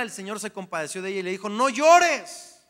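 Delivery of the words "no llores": tender command. A narrator's reading. Jesus consoling widow in Bible reading.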